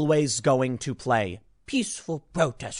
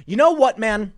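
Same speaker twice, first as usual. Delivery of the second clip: much higher and louder, fed up; exasperated outburst; 6 semitones higher, 6 dB louder than usual. Real, not acted. Commentator reacting to the governor's statement, loud exasperated outburst. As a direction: throw it out in exasperation.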